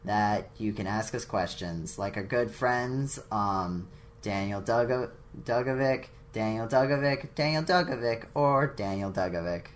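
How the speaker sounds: even, middle-of-the-road announcement; studied, uninvested sign-off read; deliberately neutral. Pretend. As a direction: read it out with completely average energy. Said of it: "completely middle ground, all right".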